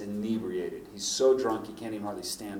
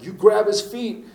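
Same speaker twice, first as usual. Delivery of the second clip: loud, higher barked order; retold yell; 10 semitones higher, 8 dB louder than usual. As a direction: shout the command in the middle of a scuffle. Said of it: "Eric yells at him".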